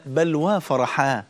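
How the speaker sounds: slow, smiling joy; mild smiling calm at death; joyful at death. Retold or imitated. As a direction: say it gently, glad to meet the beloved. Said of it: "وهو يبتسم عند الموت".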